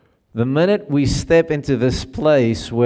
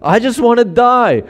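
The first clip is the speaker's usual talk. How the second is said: sulky Jonah; 9 semitones higher, 3 dB louder than usual. Retold or imitated. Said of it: "and he's like".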